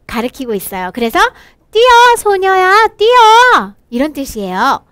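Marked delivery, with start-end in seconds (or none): 1.7-3.7 louder, higher warning shout; slow loud warning to run; urgent call. Acted. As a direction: yell at the girl to run. Acted call warning the girl.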